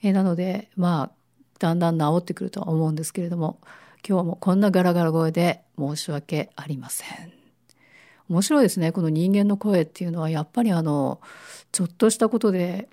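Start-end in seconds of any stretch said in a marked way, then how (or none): 4.1-7.3 raspy voice from a cold; hoarse, worn-out voice with a cough. Real, not acted. (ガラガラ声)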